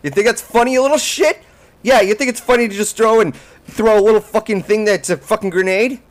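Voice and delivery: angry. Real, not acted. Mock fury at the game.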